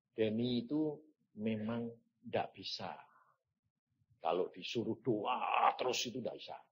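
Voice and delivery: soft, low voice of God; gentle correction. Retold or imitated. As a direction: correct him quietly, pitched low.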